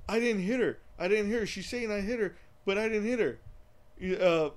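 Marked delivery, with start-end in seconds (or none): 0.1-3.4 1 imitating Wiseau. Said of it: "He's like".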